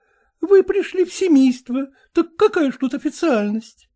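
usual speaking voice

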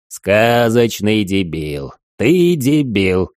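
slow, near-shouting exasperation; holding back a shout. Acted. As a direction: drag it out, then almost yell. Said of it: "Димыч почти кричал".

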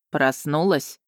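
low, unhurried smug question; lazy. A narrator's reading. Dragon asks after the kiss woke her, lazily. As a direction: drawl it, pleased with yourself. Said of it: "лениво поинтересовался Варган".

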